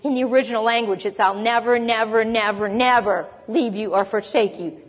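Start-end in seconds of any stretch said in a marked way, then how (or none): 1.2-4.8 never repeated, each never leaned on; emphatic repeated never. Shown as a demonstration. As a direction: stress every never. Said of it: "the emphasis there is strong".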